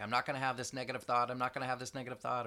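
fast, loud, insistent self-talk; stubborn refusal. Retold or imitated. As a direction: rattle it off like a stubborn rule. Acted rigid self-talk refusal.

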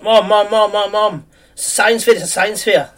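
put-on high eager boy voice; excited kid calling mom. Boy calls his mom about the science fair, high and eager. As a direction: shout for mom, bursting with news. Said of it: "He's like".

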